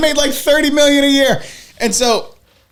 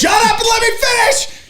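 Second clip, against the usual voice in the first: shouting to interrupt; 9 semitones higher than usual. Real, not acted. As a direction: talk over him and finish your story. Interrupting co-host to finish story.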